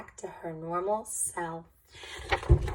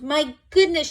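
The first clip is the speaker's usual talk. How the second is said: higher, louder head-shaking exclaim; dismayed exclamation; 6 semitones higher, 5 dB louder than usual. A narrator's reading. Old woman reacting to Camilla's room, dismayed. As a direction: tut it in mock dismay. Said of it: "with a shake of her head".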